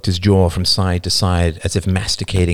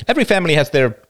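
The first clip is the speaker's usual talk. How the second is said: high, emphatic, a little louder; loud, defensive; 9 semitones higher, 3 dB louder, much faster than usual. A narrator's reading. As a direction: insist in a raised voice, then break off. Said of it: "said Hamish loudly".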